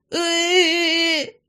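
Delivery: high, drawn-out whine; baby whimpering wail. A narrator's reading. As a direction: whimper like a crying toddler. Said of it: "хныкал он".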